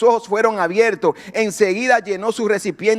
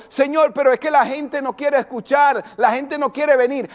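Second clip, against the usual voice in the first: raised, protesting complaint; pleading excuse; 3 semitones higher than usual. Retold or imitated. Believer protesting to God that nobody will come, pleading. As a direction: plead your excuse, voice pitched up.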